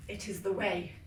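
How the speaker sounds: warm serene goddess voice. Acted. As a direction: murmur like a trance. Cult induction, goddess ritual.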